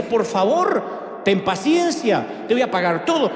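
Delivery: slow, drawn-out pleading, rising to a mock cry; begging. Debtor begging the servant who chokes him, slow pleading. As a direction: beg slowly for mercy.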